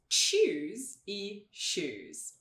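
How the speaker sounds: very slow "Choose e shoes", CH then SH; tch against sh. Shown as a demonstration. Teacher contrasting two sounds, "Choose e shoes" drawn out. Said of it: "vamos colocar esses dois sons".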